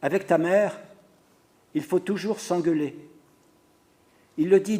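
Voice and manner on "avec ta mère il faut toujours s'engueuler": calmly. Acted. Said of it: "il dit tranquillement".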